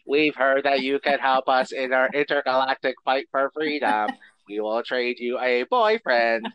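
Coneheads voice. Acted. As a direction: speak like a formal alien ambassador. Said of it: "that was their voice I was doing".

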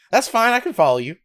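high, eager-to-follow stranger's voice; imitated insistence.

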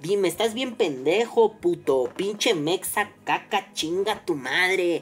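imagined crude reply spelled out slowly; inner rant. Retold or imitated. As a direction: let the insults drag out sarcastically. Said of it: "Y yo por dentro así de".

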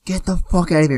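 high, loud mock yell; imitated screaming. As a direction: act out a host screaming everyone out. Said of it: "then he starts screaming".

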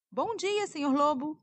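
put-on high, sweet girl's voice; little girl voice. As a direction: answer like a polite little girl. Girl answers the wolf.

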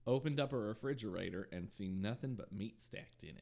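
police quote with a Southern twang; southern accent. Acted. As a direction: read it like a Houston officer, lightly Southern. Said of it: "you gave it a southern accent".

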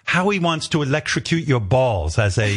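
lightly imitated British producer; courteous request in a rough British accent; amateur British accent for a polite producer. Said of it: "I don't do a British accent".

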